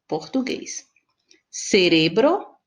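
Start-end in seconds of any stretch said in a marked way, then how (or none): 1.5-2.6 Cerebro said the Spanish way, slowly: ce-RE-bro; Spanish pronunciation. Shown as a demonstration. Teacher reading Cerebro slowly with Spanish stress on RE. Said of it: "español".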